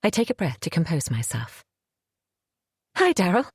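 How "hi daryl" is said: forced calm. Acted. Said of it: "I say calmly".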